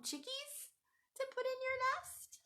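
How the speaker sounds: high playful whisper; whispered question. Shown as a demonstration. Asking the kids about pom-pom chickies, in a high whisper. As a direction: whisper it up like a delightful secret.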